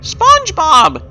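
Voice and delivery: high, drawn-out excited call of his name; excited cry. Acted. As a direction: call out his name with girlish joy, slowly. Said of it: "she cries out with an excited tone".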